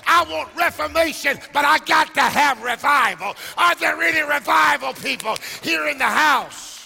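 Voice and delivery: loud, rising sermon cadence with organ behind; fervent preaching. Acted. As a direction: preach it out, building fire. Preaching at full force.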